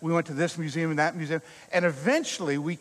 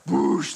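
whoosh; 3 semitones lower, 3 dB louder than usual. Retold or imitated. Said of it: "It goes".

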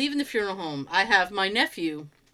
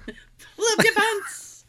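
laughing; 11 semitones higher, much slower than usual. Real, not acted. Joke riffing on pants.

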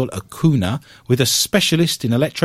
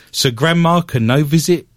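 put-on Argentinian accent. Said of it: "That's my best Argentinian accent".

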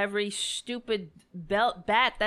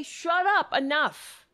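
fed-up shout; 4 semitones higher than usual. Acted. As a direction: bark it like you've had enough. Telling protesters to shut up.

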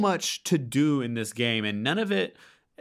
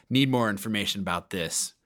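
terse, low gravelly voice; clipped lines in a rough low voice; low gravel vigilante growl; 5 semitones lower than usual. Retold or imitated. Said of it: "he speaks very tersely".

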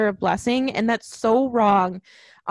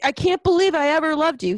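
higher, hurt name-calling outburst; mock angry; 4 semitones higher than usual. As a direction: act out a jilted lover's angry insults. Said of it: "get angry with her and be like".

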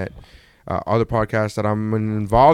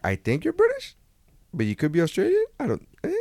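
put-on mixed British Australian accent; 7 semitones higher, 5 dB quieter than usual. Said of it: "now it sounds like".

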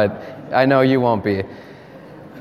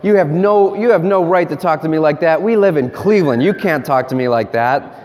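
mild mock parental reprimand; parent scolding; 3 semitones higher than usual. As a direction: lightly scold him from above. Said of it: "So he might talk back to John".

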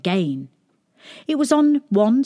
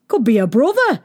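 higher, louder voice of a gossiping onlooker; 5 semitones higher, 5 dB louder than usual. A narrator's reading. People remarking on the doctor's looks, gossiping. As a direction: pipe up as a nosy bystander.

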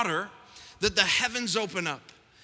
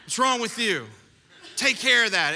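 judging bystander; 3 dB louder than usual. Retold or imitated. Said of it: "And I'm like".

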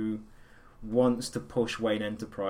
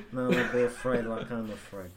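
Marlon Brando as Batman. Acted. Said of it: "Apocalypse Now era Marlon Brando".

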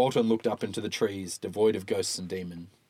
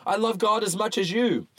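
character voice; 12 semitones higher, 4 dB louder than usual. Acted. Walton protests.

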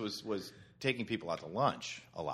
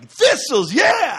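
much louder, higher whooping cheer; drunken cheer; 17 dB louder, much slower than usual. Pretend. Drinking buddy whooping about thistles at euchre, loud.

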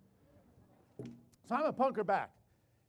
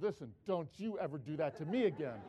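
laughing; 8 semitones lower, 6 dB quieter than usual. Retold or imitated. Wife scolding, laughing as he tells it.

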